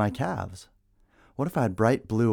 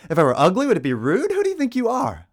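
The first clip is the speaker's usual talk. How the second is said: angry outburst; 11 semitones higher, 5 dB louder than usual. Acted. Angry climax of poem.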